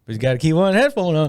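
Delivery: "headphone on" lilted in imitation; signature inflection. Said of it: "always say it with an inflection".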